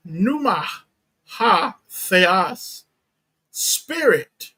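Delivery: "Pneuma ha theos", word by word, with weight on "spirit"; emphatic reading. Shown as a demonstration. Preacher reading the verse from the Greek to be emphatic, emphatic on "spirit". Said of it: "read it from the Greek to be emphatic".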